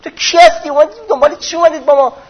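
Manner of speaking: Persian commander. Retold or imitated. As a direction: demand who he is, brusque and quick. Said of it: "گفت".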